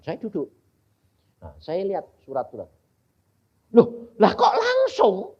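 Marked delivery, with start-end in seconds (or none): 3.7-5.3 slow, high, laughing surprise; laughing amazement. Retold or imitated. Preacher retelling his wonder at reading everything at once, laughing and high. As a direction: marvel out loud, laughing. Retold amazement at instant understanding.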